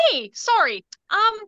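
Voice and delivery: friendly on top, demanding underneath; chirpy retail voice with an edge; customer service voice. Shown as a demonstration. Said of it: "calling it my customer service voice".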